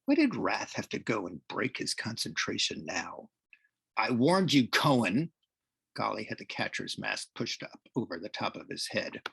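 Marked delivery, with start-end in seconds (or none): 4.0-5.3 threatening rival, a little louder; understated threat to an opponent; mild menacing warning. Acted. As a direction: warn him off with some force. Rival threatens pitcher in read story.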